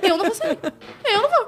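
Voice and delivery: high, defiant mock refusal; laughing defiant retort; rude refusal. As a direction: snap back that you won't budge, half laughing. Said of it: "eu falei toda grossa".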